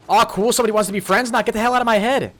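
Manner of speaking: hammed-up alert-voice echo; imitating the audio cue. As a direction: parrot the robot line, then push it away. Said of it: "What was that audio cue?".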